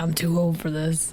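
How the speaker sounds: mumbling under the breath. A player in a tabletop heist game speaks as police close in: muttered to oneself. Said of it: "I just muttered to myself".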